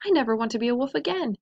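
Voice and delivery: fast, breathless vow; panting. Acted. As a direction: rush it out of breath. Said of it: "he panted".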